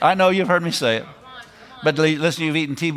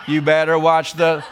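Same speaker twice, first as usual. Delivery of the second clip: laughing. Real, not acted. Joking warning, laughing.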